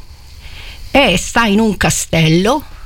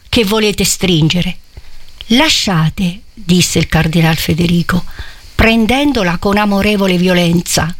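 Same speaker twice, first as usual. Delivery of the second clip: literary reading. A narrator's reading. Preacher reading Manzoni's scene aloud, solemn. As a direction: read the passage with gravity to the congregation.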